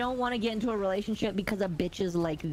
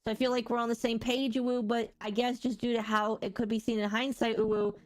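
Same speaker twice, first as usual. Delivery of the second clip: breathy cutesy giggly; Uwu voice. Pretend. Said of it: "I should just do the Uwu voice".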